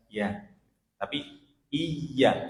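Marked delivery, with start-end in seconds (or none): 1.7-2.4 'iya' as 'iy-ya', leaning on the y; pressed doubled y. Shown as a demonstration. Teacher correcting the casual yes, pressed y. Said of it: "ada tasdidnya ya".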